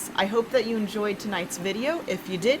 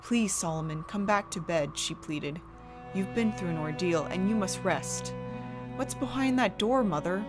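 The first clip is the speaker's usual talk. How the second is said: hushed, eerie storytelling; 2 semitones lower than usual. A narrator's reading. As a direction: narrate a gothic horror tale. Horror story narration with music.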